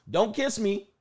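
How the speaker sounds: high, soft imitation of a girl dodging; mock reluctant girl. Date turning away from a kiss, mock reluctant and soft.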